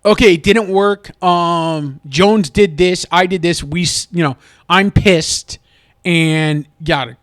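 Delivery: wished-for blunt coach. Pretend. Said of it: "he just looks at him and goes".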